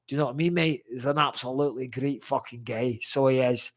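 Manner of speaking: lightly put-on Scottish accent. Shown as a demonstration. Praising a great fighter to a mate, in a playful Scottish accent. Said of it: "any excuse to do a Scottish accent".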